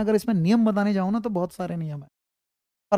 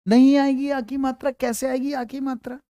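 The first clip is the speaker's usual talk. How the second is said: emphatic correction; 4 semitones higher than usual. Real, not acted. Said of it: "corrects wrong answer".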